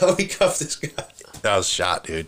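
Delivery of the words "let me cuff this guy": high, slow plea; exhausted plea. Retold or imitated. Cop struggling on the ground asking to cuff the suspect. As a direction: say it like you're spent. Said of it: "I was like".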